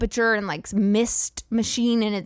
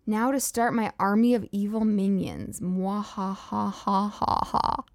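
slow theatrical villain menace; 3 dB quieter than usual. Pretend. Announces evil plan.

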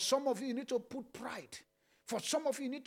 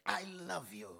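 much lower and softer, intimate; tender whisper of love; 6 semitones lower, 7 dB quieter than usual. Real, not acted. Pastor praying tenderly to God, hushed. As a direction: say it like to a loved one, hushed. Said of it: "Say it like you mean it".

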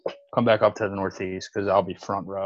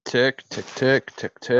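boomer impression; 4 semitones higher, slower than usual. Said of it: "That was, that was my boomer impression".

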